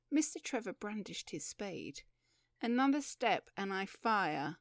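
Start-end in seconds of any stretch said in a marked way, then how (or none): 2.6-4.6 loud, hard warning; stern and forceful; harsh threat. Acted. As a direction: warn them off harshly. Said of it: "said the woman harshly".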